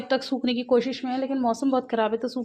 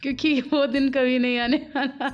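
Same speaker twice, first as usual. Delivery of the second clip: laughing quote; 3 semitones higher than usual. Retold or imitated. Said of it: "तो mummy कह रही".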